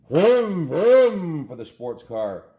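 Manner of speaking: loud, drawn-out engine vroom, high pitched; vroom noises. Acted. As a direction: rev it like a toy car engine. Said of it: "making noises with his mouth".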